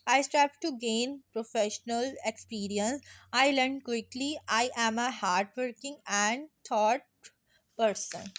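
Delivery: very slow, every word spaced out for writing; slow dictation. Shown as a demonstration. Teacher dictating a CV summary to students, very slow. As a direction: dictate it so students can copy.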